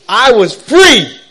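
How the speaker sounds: slow, high and loud, laughing through it; laughing joy. Real, not acted. Recalling the morning he felt free, laughing. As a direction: savour every word with a laugh.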